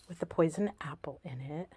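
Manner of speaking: breathy hushed whisper. Real, not acted. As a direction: whisper it like a secret treasure. Hushed over the poison apple.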